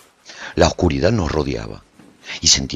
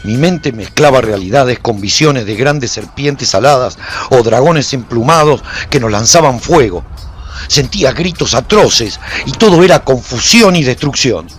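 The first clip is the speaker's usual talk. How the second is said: higher and louder, overwhelmed by visions; frantic battle narration; 7 semitones higher, 8 dB louder than usual. A narrator's reading. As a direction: ride the chaos as it floods in. Hallucinations amid battle chaos.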